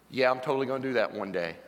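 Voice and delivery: quick, low brush-off; mock casual agreement, hurried and low; noncommittal procrastinator. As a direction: toss off an empty promise. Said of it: "And you're the".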